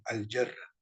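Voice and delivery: "al-yerra" said the Arabic way, the al clearly sounded, rising at the end; teacher modelling the Arabic "al-yerra"; Arabic pronunciation. Shown as a demonstration. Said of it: "en árabe se escucha muy bien".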